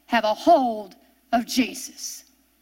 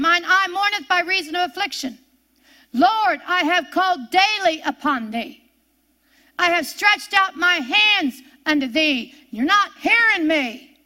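high, raised preacher's voice; Jesus in anguish; 5 semitones higher, 3 dB louder than usual. Acted. Preacher voicing Jesus in hell to God, anguished plea. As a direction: plead upward to a God who won't listen. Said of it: "Jesus is speaking here. He's in hell".

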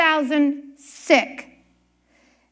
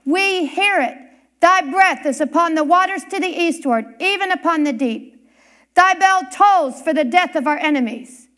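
triumphant thunder. Retold or imitated. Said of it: "he thundered triumphantly".

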